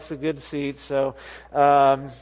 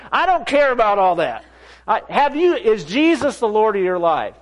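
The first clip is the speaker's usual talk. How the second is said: higher, insistent questioning; agitated, raised-pitch challenge; worked-up demand; 3 semitones higher than usual. Retold or imitated. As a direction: press the question hard, exasperated. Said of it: "not like I am now".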